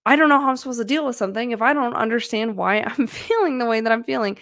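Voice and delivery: exasperated, quick, half-laughing complaint; mildly exasperated self-talk, a little fast; frustrated. Retold or imitated. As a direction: vent the frustration at yourself with a laugh. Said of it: "I get very frustrated when that happens".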